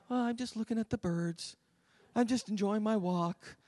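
lightly voiced dawdler; dilly-dallying child. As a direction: answer softly, in no hurry. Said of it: "they just were dilly-dallying".

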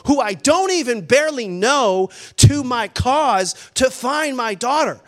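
building, emphatic urgency; getting loud. Retold or imitated. Father recruiting strangers to find his daughter, getting loud. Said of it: "get loud".

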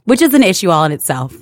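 calm, measured office voice; polite and composed, correcting a customer; professional voice. Retold or imitated. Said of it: "I say in my professional voice".

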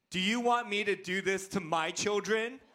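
mildly indignant child's challenge, mock-serious; upset son. Upset Liam confronts his dad, mild mock indignation. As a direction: imitate your upset boy confronting you. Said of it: "when he gets really upset".

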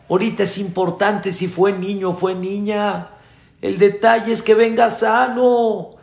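high, lamenting outpouring; anguished regret. Acted. Father regretting his wish for a son, acted anguish. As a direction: bewail it with pitch held up, acted distress. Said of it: "empezó el hombre a angustiarse".

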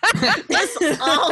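slow, high Southern twang; hammed-up Southern accent. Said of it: "keep the accent up".

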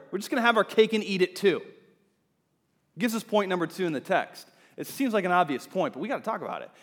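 ordinary talk, nothing marked

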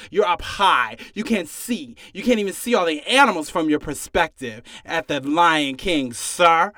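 normal talking voice

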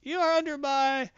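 high put-on villain voice; mock command, pitched high and cut short; Brainiac. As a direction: play a faltering cartoon overlord. Voicing Brainiac's faltering command.

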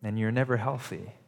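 gentle, sorrowful voice of a let-down friend; heartbroken. Retold or imitated. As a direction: speak it as a friend whose heart is breaking. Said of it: "I read it like Jesus' heart is breaking".

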